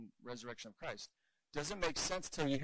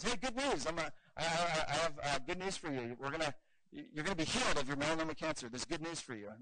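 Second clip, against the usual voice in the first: mock cheery good news; 3 dB louder than usual. Doctor blurting good news to a stranger, mock cheery. Preacher mocks a gospel-first pitch.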